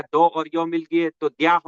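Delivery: slow, careful step-by-step joining of letters; walk through each letter slowly; slow explaining. Shown as a demonstration. Teacher slowly showing students how letters join. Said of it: "व में ई जोड़ दिए तो वी हो गया".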